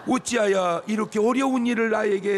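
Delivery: hammed-up anguished plea; mock lament to God. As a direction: wail a comic prayer of protest. Acted lament to God, joking.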